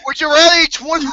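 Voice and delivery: words breaking into laughter; laughing, can't finish. Real, not acted. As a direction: try to speak through giggles. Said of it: "I can't even say it".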